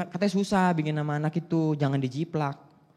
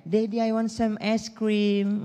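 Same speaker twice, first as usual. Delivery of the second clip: put-on slow, whiny child request; lightly voiced little girl; rich kid; 4 semitones higher, much slower than usual. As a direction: ask sweetly like a spoiled kid. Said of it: "Orang kaya kayak".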